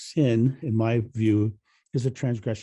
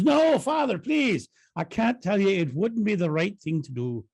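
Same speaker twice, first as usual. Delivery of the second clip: desperate pleading; 8 semitones higher than usual. Acted. Sean pleads with the priest.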